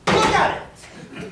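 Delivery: high, loud frantic cry; distraught cry. Acted. To the banker, a frantic high cry. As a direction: shriek at him to look. Distraught woman shows her hair.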